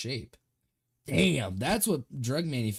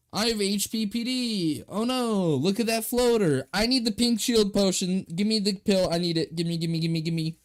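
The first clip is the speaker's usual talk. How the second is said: higher, louder mock panic; mock panicked demanding; 6 semitones higher, 3 dB louder than usual. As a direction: whine for the potion like an addict. Mock panic about floaters.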